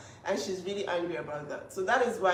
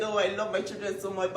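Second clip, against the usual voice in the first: sarcastic mimic. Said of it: "him saying".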